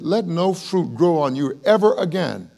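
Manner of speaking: declaimed, emphatic command; commanding curse. Acted. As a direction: pronounce the sentence with force. Voices Jesus cursing the fig tree.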